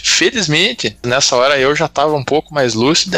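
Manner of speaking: ordinary delivery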